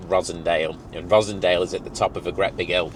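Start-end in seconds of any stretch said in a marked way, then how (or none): 2.3-2.9 "hill" said as 'ill with no h sound; Lancashire h-dropping. Shown as a demonstration.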